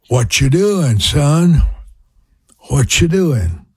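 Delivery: a light Louisiana mother's drawl, imitated; Louisiana accent. Imitating his Louisiana mother phoning her son, light Louisiana accent. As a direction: mimic mom's Louisiana twang asking her son. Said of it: "a little accent there probably".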